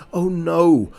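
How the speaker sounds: startled yelp of panic; alarmed. Acted. Guest panics at the rat, alarmed cry.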